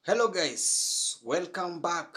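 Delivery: loud, bright welcome; upbeat host greeting. Real, not acted. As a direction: greet viewers like a YouTuber.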